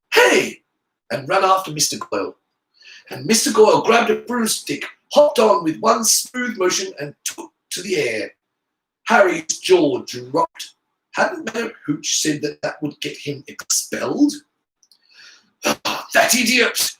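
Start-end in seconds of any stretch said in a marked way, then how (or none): 0.1-0.6 high, loud shout. A narrator's reading. Ernie calling after fleeing Goyle, shouting. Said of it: "and then shouted". 15.6-16.9 slow, higher exasperated hiss. A narrator's reading. Draco annoyed at Goyle flying off, hissing. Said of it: "Draco hissed".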